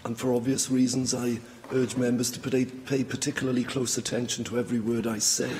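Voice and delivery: hoarse, fading voice; losing voice. Real, not acted. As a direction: speak through a failing hoarse voice. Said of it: "as I'm losing my voice".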